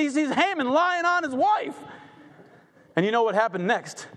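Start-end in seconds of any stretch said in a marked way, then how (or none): 0.0-1.8 dramatic shout. Real, not acted. Preacher's dramatic climax.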